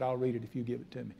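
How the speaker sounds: gently voicing her reply; the girl promising to read the tract; soft quoted girl. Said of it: "She smiled and ... and said".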